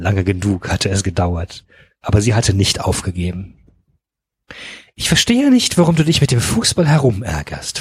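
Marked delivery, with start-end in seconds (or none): 5.0-7.8 sweetly fluted, high, swooping lilt. A woman speaks on the phone to a man, fluting sweetly. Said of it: "flötete sie ins Telefon".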